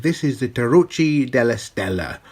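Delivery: a light stab at an Italian accent; self-mocking Italian accent; Italian accent attempt. Shown as a demonstration. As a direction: try it in a half-hearted Italian accent. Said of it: "an attempt at an Italian accent".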